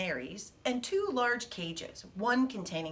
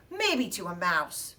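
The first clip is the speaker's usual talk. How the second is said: touch of scorn; 3 semitones lower than usual. Acted. Hamster putting down the mouse's remark, touch of scorn. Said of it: "a touch of scorn in Chum's voice".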